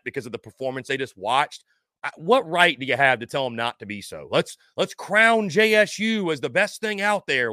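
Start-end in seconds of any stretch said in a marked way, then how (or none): 4.3-7.5 sarcastic. Real, not acted. Sarcastic retort to commenter.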